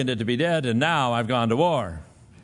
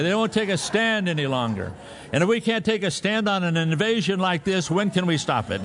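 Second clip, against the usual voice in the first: mock righteous speech; 3 semitones higher than usual. Retold mock-serious speech to wife.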